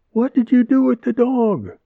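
high, loud, indignant demand; huffy angry woman. A narrator's reading. Angry neighbor demands to know about her dog, high and loud. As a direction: storm in and demand the dog back. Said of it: "a female voice asked in a huff".

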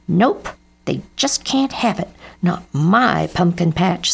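a touch of defiant anger; stubborn refusal. Acted. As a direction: dig in like a stubborn kid. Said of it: "stabbed his fork angrily".

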